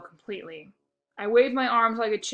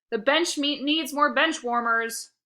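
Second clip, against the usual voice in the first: coach taunting; 5 semitones higher, 5 dB louder, slower than usual. A narrator's reading. Coach mocking player.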